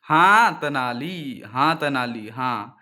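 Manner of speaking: slow, lordly mock king voice, trailing off; imitating the king. Courtier mimics the king praising Tenali, slow mock royal drawl. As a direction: drag it out like a pompous king. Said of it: "राजा जैसे बोलते हैं ऐसे बोल पड़ता है".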